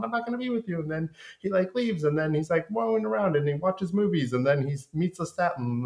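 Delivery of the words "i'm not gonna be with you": mock Louis. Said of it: "he tells Armand".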